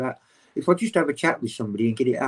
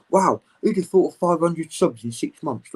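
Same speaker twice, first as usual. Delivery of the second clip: higher-pitched retold amazement; animated; 5 semitones higher, 4 dB louder than usual. Retelling his YouTube excitement at the doctors', animated. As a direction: recreate your keen, wowed chatter. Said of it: "I'm all animated".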